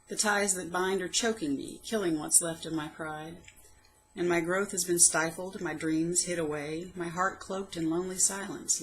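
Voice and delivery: measured, heartfelt poem recital; poem reading. Acted. Poet reading her old poem aloud, heartfelt recital. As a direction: read it like a private diary poem.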